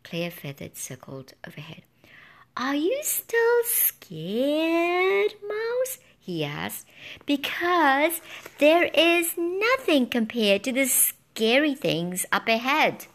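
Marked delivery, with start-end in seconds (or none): 2.6-13.1 high, slow spooky bird voice; high, slow taunting bird; teasing bird. A narrator's reading. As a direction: tease the mouse with dread. Bird character voice.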